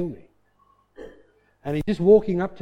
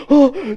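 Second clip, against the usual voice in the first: loud high gasp for air; imitated laughing gasp; 8 semitones higher, 10 dB louder than usual. Visitor helpless with laughter, mimicked loud gasp. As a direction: mimic gasping between belly laughs. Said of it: "now he's bellyache laughing".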